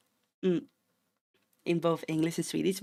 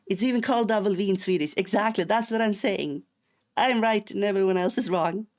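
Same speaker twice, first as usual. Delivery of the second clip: loud, raised, emphatic vindication; mock indignant insistence; 4 semitones higher, 6 dB louder than usual. Streamer telling chat everyone else is wrong, mock indignant. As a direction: declare victory with playful outrage. Insisting they alone are right.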